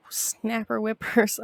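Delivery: snapper whippers, slow and careful, words swapped; backwards speech. Acted. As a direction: say snapper whippers slowly, halves reversed. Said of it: "that's hard to say backwards".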